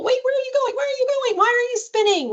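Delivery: very high, teasing chase voice; playful. Shown as a demonstration. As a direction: squeal questions as if chasing a child in play. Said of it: "we're doing it in a playful way".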